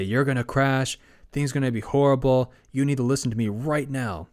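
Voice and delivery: half-hearted freak-out, pushing the fear; mock panic. Fallen voice warning the speeding kid, in a mild mock panic. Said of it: "whisper in his ear and just start freaking out".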